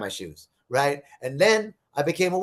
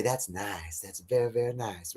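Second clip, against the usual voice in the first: mock polite punchline; 6 semitones lower, 8 dB quieter than usual. Punchline repeated as joke's lesson.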